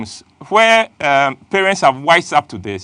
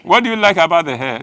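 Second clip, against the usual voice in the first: imitating a girl; faster than usual. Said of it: "We are not like girls".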